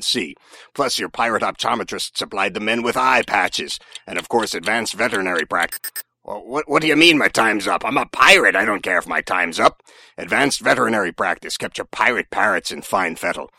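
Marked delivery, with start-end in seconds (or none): 6.2-9.8 indignant. Acted. Pirate protests his time is up.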